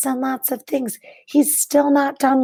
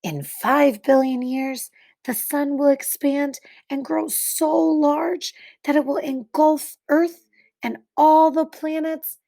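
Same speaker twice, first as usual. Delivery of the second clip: put-on clear, expressive read-aloud to children; story narration. A narrator's reading. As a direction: read it like a picture book for kids. Reads picture book to class.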